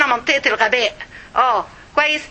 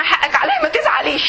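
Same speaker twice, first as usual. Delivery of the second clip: daughters mimicking mom. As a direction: parrot mom's stock apology teasingly. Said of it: "تقول لنا".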